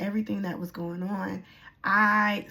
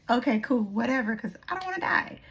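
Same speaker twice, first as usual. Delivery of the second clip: frantic retold plea; 5 semitones higher, 4 dB louder than usual. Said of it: "And I was like".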